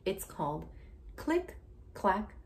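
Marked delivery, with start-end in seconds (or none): 1.2-2.4 big loud BOO jumping up high; spooky boo. Acted. Teacher reading to a child, shouting the boo for a spooky jump. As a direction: pop the boo out to startle the child.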